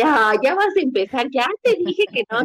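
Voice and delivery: imitating an exasperated partner, pitch climbing; mock exasperation. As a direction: act out a weary brush-off, voice rising. Partner's dismissive reply, acted out.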